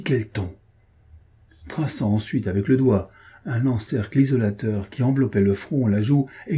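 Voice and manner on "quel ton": exclaiming in awe. Acted. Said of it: "il s'écria".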